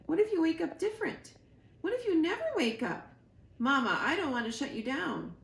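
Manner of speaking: put-on high, fast, worried young voice; a little bird panicking about his mother; anxious gosling. Gosling Bright Bill pleads.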